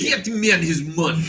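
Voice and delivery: high, hammed-up Russian accent; John Malkovich in Rounders. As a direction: chew the line in a heavy Russian accent. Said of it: "He's just chewing the shit out of that accent".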